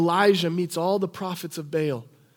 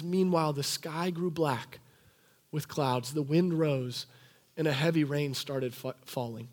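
hushed scripture reading; 5 semitones lower, 9 dB quieter than usual. Acted. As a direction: read it like a hushed revelation. Reading scripture climax aloud.

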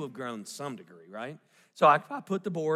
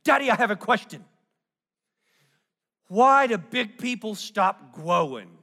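put-on curious little girl; 5 semitones higher, 7 dB louder than usual. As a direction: ask it with wide-eyed toddler wonder. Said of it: "She says".

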